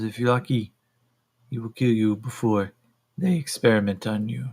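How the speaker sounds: put-on stern woman with a Russian accent; measured, Russian-accented warning. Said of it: "the Altarians are now Russian".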